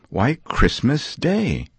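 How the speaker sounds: a lad stating the obvious; boy answering. Acted.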